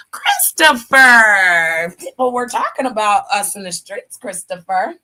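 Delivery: dragging the name out loud; dramatic drawl. Acted. Scolding Christopher about gossip, drawn-out name.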